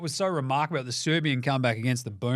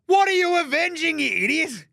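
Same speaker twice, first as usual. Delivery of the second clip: much higher, louder, incredulous; exasperated rant; 13 semitones higher, 6 dB louder than usual. Real, not acted. Host ranting at Team USA over their Avengers name, loud. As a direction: yell at the absurd name.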